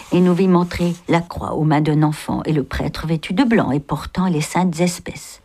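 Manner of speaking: measured, expressive reading of a classic novel; story narration. A narrator's reading. A reader telling the novel's night escape, in an expressive narrating voice. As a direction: read the chapter aloud, letting the scenes breathe.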